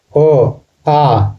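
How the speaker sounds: ओ brief, then आ held longer; vowel-length demonstration on ओ, आ; short then long vowel. Shown as a demonstration. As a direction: sound out ओ, then open into a long आ. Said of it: "छोटा दो अ मिलकर आ".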